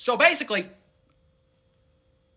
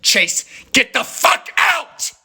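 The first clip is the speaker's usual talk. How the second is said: much higher shouted get out; mock yell; 13 semitones higher, 3 dB louder than usual. Imitating the friend yelling at him to get out. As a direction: scream him out of the room. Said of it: "she goes".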